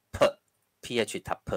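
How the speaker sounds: "p" as a puff of p, like Taiwanese; slow, clearly shown "p" sound; aspirated p sound. Shown as a demonstration. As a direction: say PH as p, not f. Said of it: "台语同款，读作p".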